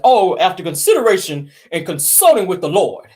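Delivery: put-on solemn, sanctimonious announcement; mock face-saving statement. Gossip host mimicking husband's divorce announcement, mock pious. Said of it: "try to save face and say".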